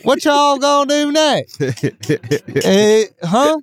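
high honky-tonk twang, amused; honky tonk accent. Pretend. Questioning China about a family reunion, in honky tonk accent. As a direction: keep up the hammed-up honky-tonk voice. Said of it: "say it in your honky tonk accent".

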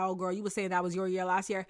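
put-on fast, teasing "oh girl" tone; mocking eye-roll. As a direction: roll your eyes as you say it. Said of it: "everyone rolls their eyes".

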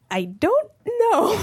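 scared small voice. Retold or imitated. Scared answer to murder question.

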